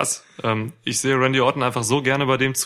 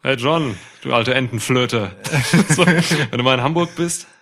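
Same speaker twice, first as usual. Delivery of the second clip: taunting wrestler callout; wrestling promo; 3 dB louder than usual. Pretend. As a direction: call him out like a wrestler. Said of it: "deine erste Podcast-Promo cutten".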